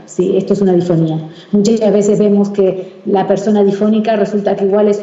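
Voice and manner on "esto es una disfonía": low, voice fallen back in the throat; demonstrating a dysphonic voice; dysphonic demo. Shown as a demonstration. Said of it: "se le pone difónica".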